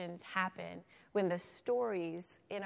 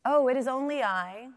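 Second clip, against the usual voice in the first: lightly voiced little billy goat, higher pitch; a hint of a tiny goat, pitched up; small goat voice; 5 semitones higher, 7 dB louder than usual. A narrator's reading. Tiniest goat answering the troll, in a small voice. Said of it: "the billy goat with a small voice".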